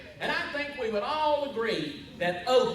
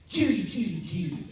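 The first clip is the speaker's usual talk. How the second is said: demonstrating a movie-star catchphrase; feed the impression line to someone to copy; lightly voiced film-star impression; Cary Grant. Shown as a demonstration. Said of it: "Cary Grant impression".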